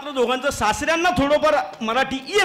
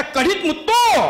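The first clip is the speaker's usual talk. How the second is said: mother-in-law crying out, pitched up; mock cry; 5 semitones higher, 3 dB louder, slower than usual. Mother-in-law cries out as the pearl drops. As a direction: call out the words in alarm. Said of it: "त्या जोरात ओरडल्या".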